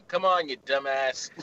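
slow mocking insult; Courtney Summers wake-up insult. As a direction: drag out the insult slowly. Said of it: "my alarm to be Courtney Summers going".

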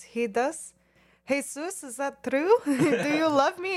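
put-on excited high voice with Hispanic accent. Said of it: "my Hispanic accent".

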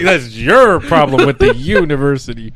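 put-on slow, loud Indian accent through laughter. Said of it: "Insert Indian accent".

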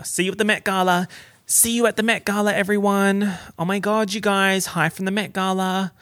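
high, chirpy mock host greeting; pretend gala host. Vlogger pretending to host from the Met Gala, high and gushing. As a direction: gush to the audience in a high voice.

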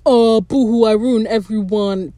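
drawn-out mock self-pity; mock crying. Fan imitating the pirate's self-pity, mock crying. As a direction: put on a slow, hammed-up boo-hoo. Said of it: "instead of just crying and being like".

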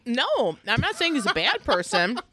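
talking while eating; mouth full. Real, not acted. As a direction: speak around a bite of chicken. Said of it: "just eating a boneless wing".

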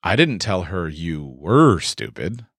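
"were" stretched and lifted, slowly; stress on were. Shown as a demonstration. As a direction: make "were" carry the past tense. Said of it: "I told her you're still stupid".

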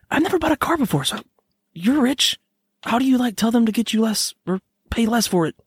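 high, excitable put-on British accent; a hammed-up British toff. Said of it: "talking this, this accent still".

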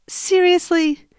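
drawn-out, incredulous "Seriously?"; exasperated. Retold or imitated. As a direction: roll your eyes through it. Annoyed at husband's request.

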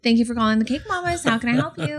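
chirpy receptionist answering the phone; customer service voice. Shown as a demonstration. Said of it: "what's your, uh, customer service voice?".

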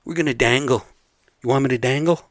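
gangster line repeated. Retold or imitated. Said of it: "That's how they say it".

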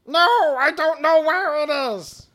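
high, loud yell back; shouted reply. Acted. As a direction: holler it back across the distance. Plop shouts back across room.

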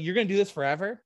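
lecturing himself, a little fast at first; mock tough love to yourself; self-scolding. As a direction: give yourself a talking-to. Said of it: "I was like".

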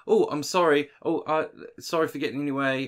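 lightly mimicked over-polite apology; fake politeness. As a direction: apologise with put-on courtesy. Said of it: "fake politeness".

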